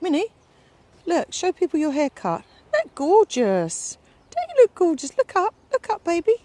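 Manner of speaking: high, sing-song coo to the dog. Real, not acted. Owner cooing at her little dog, high baby talk.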